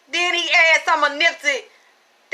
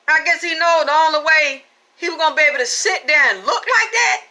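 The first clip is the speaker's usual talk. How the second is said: excited shout. Real, not acted.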